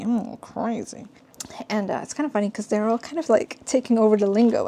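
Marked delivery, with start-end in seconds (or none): 0.0-1.1 breathy whispered aside; whispering. Real, not acted. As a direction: whisper it like a confession.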